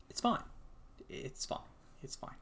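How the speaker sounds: sarcastic self-reassurance, fading to a whisper; strained, fading "it's fine"; forced fine. Real, not acted. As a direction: insist it's fine while clearly not.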